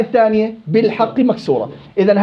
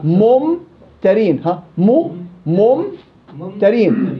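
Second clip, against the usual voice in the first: drawn-out demonstration of ممترين; slow demo; much slower than usual. Shown as a demonstration. Teacher slowly demonstrates ممترين for students. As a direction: stretch ممترين slowly so every sound is heard. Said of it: "مثل ممترين".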